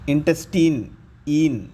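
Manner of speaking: put-on ఇంటెస్టైన్ said in-tes-TEEN, ending in "een"; long "een" ending. Shown as a demonstration. Teacher showing the ending rule, ఇంటెస్టైన్ pronounced with "een". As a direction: finish ఇంటెస్టైన్ on a long "ee" plus n, then isolate ఈన్. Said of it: "ఉంటే ఈన్".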